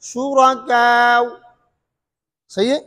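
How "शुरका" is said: शुरका with a shorter आ closing on waw; qasr with waw. Shown as a demonstration. Teacher showing ibdal with waw at shortest length. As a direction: keep the last vowel of शुरका brief, ending in w. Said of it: "और कसर क्या है".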